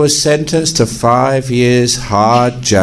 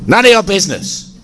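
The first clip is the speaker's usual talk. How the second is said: burglar voice; 10 semitones higher, faster than usual. Acted. Burglar snaps at abbot.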